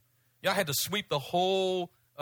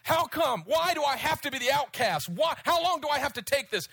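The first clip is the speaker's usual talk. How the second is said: retold tearful plea; 7 semitones higher than usual. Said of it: "weeping and crying and saying".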